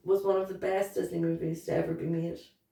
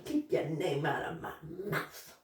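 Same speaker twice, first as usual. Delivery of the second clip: muttered quote; 4 semitones lower, 8 dB quieter than usual. Retold or imitated. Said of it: "That's what you said?".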